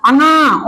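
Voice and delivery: अंगा said through the nose; teacher's model अंगा, resonating in the nose; nasal sound. Shown as a demonstration. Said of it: "ये नाक से बोले जाते हैं".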